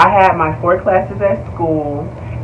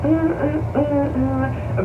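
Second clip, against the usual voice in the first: a hint of a meek stammering girl; lightly mocking timid stammer; mock timid apology; 9 semitones higher, 8 dB quieter, slower than usual. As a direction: mockingly play the shy sorry returner. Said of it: "you thought I was sitting there like".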